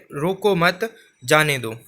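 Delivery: "रोको मत" left hanging, then a falling "जाने दो"; reading with a pause. Shown as a demonstration. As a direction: read "रोको मत" rising, break, drop on "जाने दो". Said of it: "तो आप इनको ध्यान से पढ़िए".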